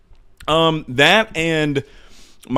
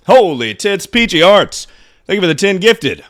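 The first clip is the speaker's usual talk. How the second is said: excited; 7 semitones higher, 7 dB louder than usual. Real, not acted. Thanking a donor on stream.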